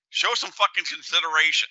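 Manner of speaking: firm, pointed rebuke at a stranger. Retold or imitated. Scene: the speaker scolding a rude guy who bumped him, pointed. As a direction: tell him off flatly, no shouting. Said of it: "I said it exactly like that".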